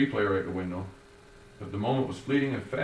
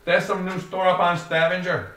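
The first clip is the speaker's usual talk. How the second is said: higher, louder puzzled Joey voice; Joey's puzzled question; 9 semitones higher, 7 dB louder than usual. A narrator's reading. Joey guessing the destination, higher puzzled voice. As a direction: wonder aloud as young Joey.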